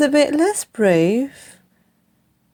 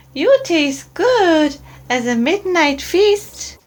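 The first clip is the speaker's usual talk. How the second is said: much higher, excited little monster voice; high eager child creature; Gruffalo's child; 7 semitones higher than usual. Acted. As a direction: squeak it out like a curious young monster. Child threatens mouse.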